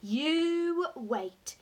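loud, high, eager promise; gleeful exclamation; excited cry. A narrator's reading. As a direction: build up the treat with relish. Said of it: "he cried".

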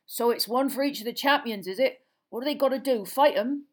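big gruff gamekeeper, in awe; Hagrid voice. A narrator's reading. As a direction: ask with hushed reverence.

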